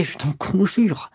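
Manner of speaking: cling to her and beg her to stay; begging. Acted. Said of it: "Il suppliait".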